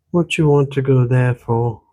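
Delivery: light Irish lilt mixed with Ottawa Valley; old country woman with an Irish-Ontario accent; a hint of an Irish-Valley accent; Irish-tinged rural Ontario accent. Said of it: "The accent she spoke with".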